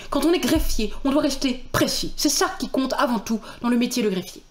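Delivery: a hint of fussy, precise official; conscientious clerk. Clerk insisting on precision, lightly earnest voice. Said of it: "très consciencieux dans son travail".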